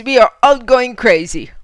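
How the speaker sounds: loud German exclamation; shouted. Acted. Fritz hears Lena's tale, shouting. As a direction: burst out in amazement. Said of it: "shouted Fritz".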